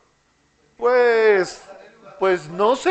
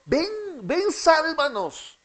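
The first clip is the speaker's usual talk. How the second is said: much higher, begging ven ven; pleading cry; 7 semitones higher, slower than usual. Shown as a demonstration. Teacher voicing the people's plea, higher and begging. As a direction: call out as if begging to be saved. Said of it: "es un clamor diciendo".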